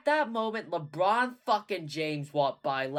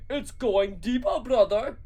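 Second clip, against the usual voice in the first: loud, slow alarmed scream; 7 semitones higher, 7 dB louder than usual. Acted. Drew screaming while pulling with pliers. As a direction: scream the bad news. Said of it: "screamed Drew".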